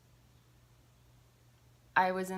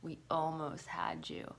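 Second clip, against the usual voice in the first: soft whispered menace; a faint hint of a haunting demon; the demons taunting her, softly whispered; 5 dB quieter than usual.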